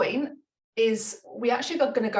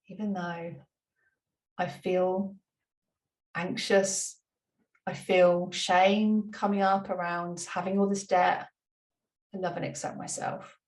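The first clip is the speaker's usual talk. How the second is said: slow, softer affirmation ending in a whisper; soft demo affirmation; slower than usual. Shown as a demonstration. Teacher voicing a debt-shame affirmation softly while tapping. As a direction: speak it gently to yourself, letting it fade. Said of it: "demo setup statement while tapping".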